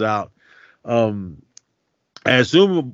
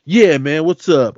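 mock street talk; 6 semitones higher, 5 dB louder than usual. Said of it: "talk like that".

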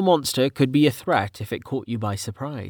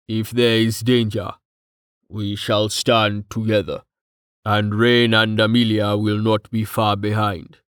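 measured, level-toned solemn figure; lightly voiced stoic rumbler; grave, steady companion. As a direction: stand by him, evenly and gravely. Voices Tallheart's solemn pledge.

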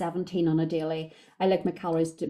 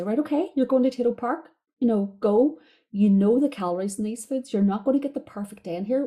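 higher, brighter push of encouragement; upbeat coaching pep talk; 4 semitones higher, 3 dB louder than usual. Retold or imitated. Coach cheering client off to a day out, upbeat. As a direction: gee her up like a coach sending her off.

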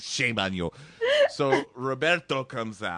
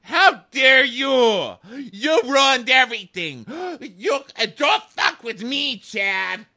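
much higher, loud, slow furious shout; yelling; 12 semitones higher, 8 dB louder, slower than usual. Retold or imitated. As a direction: scream it like a tantrum. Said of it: "Sam just starts yelling".

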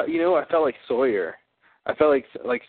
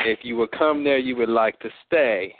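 channeled persona. Pretend. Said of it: "I just channeled a whole different person".

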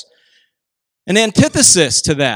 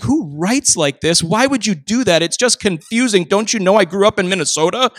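exasperated; 3 semitones higher than usual. Retold or imitated. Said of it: "my mind exploded because I was like".

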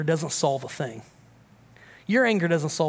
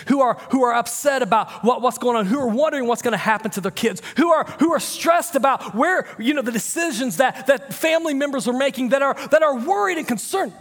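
building sermon; 6 semitones higher than usual. Acted. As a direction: build it up and let it ring.

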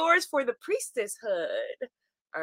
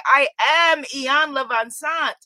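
slow, louder, proud declaration of her own name; proud self-introduction; 5 dB louder than usual. Retold or imitated. Host lightly imitating a mentor introducing herself, slow and proud. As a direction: announce yourself like a spell, slowly. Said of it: "love the way that she would introduce herself".

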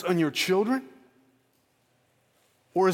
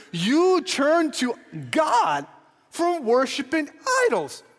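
forceful scripture quote; 9 semitones higher, slower than usual. Acted. Preacher quoting Paul with force.

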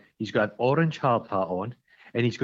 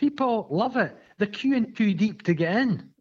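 mock enthusiasm; 8 semitones higher than usual. Mocking echo of friend.

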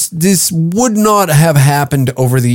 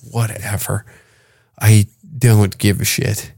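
dismissive shrug; 3 semitones lower, 4 dB quieter than usual. Retold or imitated. Comics done with name-calling, quietly dismissive. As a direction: toss it off with total indifference. Acted indifference.

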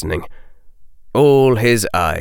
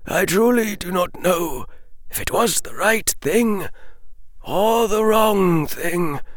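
firmer repeat; 10 semitones higher, 3 dB quieter than usual. A narrator's reading. Dumbledore repeating his doubt to Harry, firmer and grieving. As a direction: say it again with more weight.

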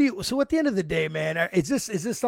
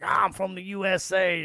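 lightly imitated Alabama accent; mock American Southern accent, lightly done. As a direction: retell it with a hint of an Alabama twang. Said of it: "with the accent".

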